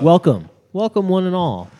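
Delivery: a hint of a showman; lightly hammed-up welcome; grand host welcome. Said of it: "you have to say the intro".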